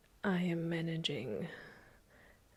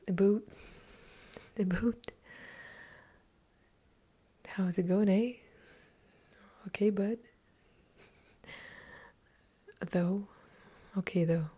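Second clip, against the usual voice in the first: playful Canadian accent with a stretched boot and eh. Shown as a demonstration. ASMR host demoing Canadian words for viewers in a light Canadian accent. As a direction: show off a few Canadian words. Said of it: "Let's say".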